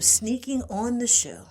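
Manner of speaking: hushed, sneaky aside; conspiratorial whisper about sneaking in; playful whisper. Real, not acted. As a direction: whisper it like a secret. Sneaking on the show.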